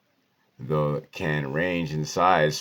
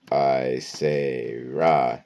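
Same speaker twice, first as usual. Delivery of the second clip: slow mantra; 2 semitones lower, 5 dB louder, much slower than usual. Shown as a demonstration. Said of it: "my mantra".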